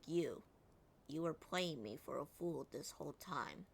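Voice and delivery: deadpan monotone, no emotion. Retold or imitated. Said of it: "versus how he did it".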